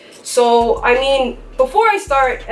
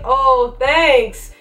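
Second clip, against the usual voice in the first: high-pitched mock gratitude; put-on, raised-pitch politeness; sarcastic thanks; 4 semitones higher than usual. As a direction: retell thanking someone for an insult. Acted reply to backhanded remark.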